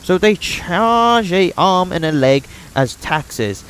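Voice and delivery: high, tense voice of a wronged settler; grim villager. Acted. Voices Oleg describing Stag Lord.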